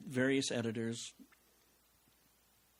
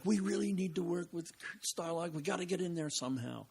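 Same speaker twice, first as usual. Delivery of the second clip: lightly higher, eager mock voice; mimicking colleagues; 7 semitones higher than usual. Retelling the partners' plea, lightly mocking. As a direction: imitate the pushy partners wanting in. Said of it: "they were like".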